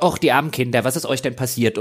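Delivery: lightly imitated caring concern; mock empathetic. Game heroine bending down to children, mildly mock empathetic. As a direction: coo a little over the poor kids, gently parodied. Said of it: "ändert sich ein bisschen die Stimmlage und dann wird sie so ein bisschen einfühlsam".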